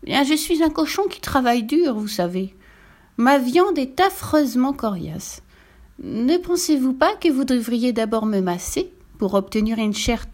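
high-voiced polite little pig; wheedling piglet. (petit cochon enjôleur, voix haut perchée)

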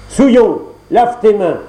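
claque le mot plus haut et plus fort; ordre méprisant. Acted. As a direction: ordonne avec dégoût. Le prince ordonne à la créature. (le fils du roi commande à la créature, sèchement et fort)

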